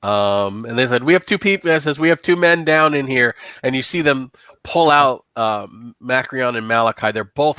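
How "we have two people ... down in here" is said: urgent, higher-pitched fireman's call; urgent report. Acted. Firemen who ran in report men down, urgent.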